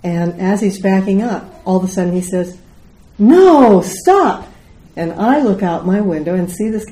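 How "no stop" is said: loud, high warning cry; alarmed shout. Retold or imitated. Husband warning a car backing into them, alarmed shout.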